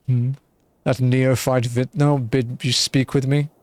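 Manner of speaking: a touch of indignant disdain; scornful and superior, mildly hammed-up; haughty wine baron. Streamer voicing the wine baron dismissing the adventurer, mildly scornful.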